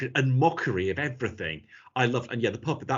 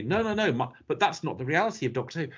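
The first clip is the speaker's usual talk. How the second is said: mock indignant fan; 3 semitones higher than usual. Mocking a protesting fan.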